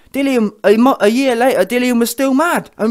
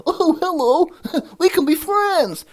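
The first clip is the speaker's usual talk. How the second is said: much higher and slow, a dopey friendly bear; hammed-up big friendly bear; 9 semitones higher, slower than usual. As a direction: stretch it out like a big goofy bear. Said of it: "That's what it reminds me of".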